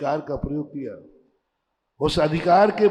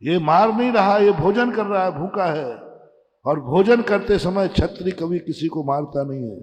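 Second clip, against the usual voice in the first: loud, raised-pitch admonishment; preaching to father; 3 semitones higher, 5 dB louder than usual. Retold or imitated. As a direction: lecture him forcefully in the daughter's words. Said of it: "पिताजी को उपदेश दे रही है".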